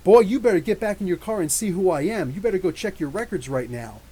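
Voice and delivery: imitated angry shout; mock yell. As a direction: throw your weight around at the cop. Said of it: "he screams".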